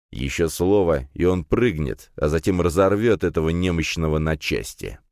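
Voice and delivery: ordinary delivery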